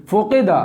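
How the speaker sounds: फोकेदा with o and e for u and i; wrong majhool vowels. Shown as a demonstration. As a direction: show the ugly wrong reading. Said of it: "कितना बेकार लग रहा है".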